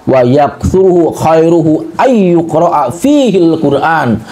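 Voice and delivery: slow, measured Arabic recital; drawn-out syllables, quoting scripture; Arabic recitation. Real, not acted. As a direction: recite the Arabic slowly and deliberately.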